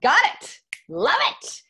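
high, loud, cheerful mock of men who get it at once; breezy guy. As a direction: toss it off like an eager guy who's sold. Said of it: "They're like".

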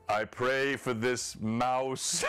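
slow, lightly hammed-up prayer; mock prayer. Joking at the game table about a player's prayer, mock prayer. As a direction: draw out a pretend prayer, half laughing. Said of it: "I think you're probably like".

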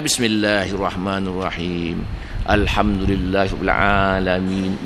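low, soft murmur of someone praying; prayer recitation. Acted. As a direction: recite evenly and quietly, absorbed in prayer. (bacaan solat perlahan)

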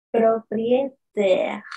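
propriétaire whispered slowly. Shown as a demonstration. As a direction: whisper it to show lips. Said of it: "Miren cómo yo pongo la posición de mis labios".

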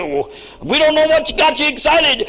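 high, baffled reply; mildly puzzled disciples. Retold or imitated. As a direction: shrug it off as the disciples. Disciples answering Jesus.

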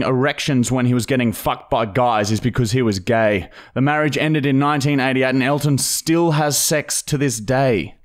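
mock-serious news reading; deadpan news read. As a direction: read it like a straight news bulletin. Reads fake news segment.

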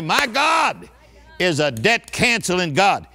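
preacher's rousing shout; shouted affirmation. Shown as a demonstration. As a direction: belt the opening like a revival cry. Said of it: "Somebody say".

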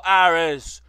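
triumphant shout of Ares; shouted hail. Acted. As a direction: hail Ares like a herald to a crowd. Herald hails the god.

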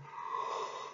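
soft breathy yawning sigh. A narrator's reading. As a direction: let out a soft, sleepy yawn. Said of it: "stretched his wings and yawned".

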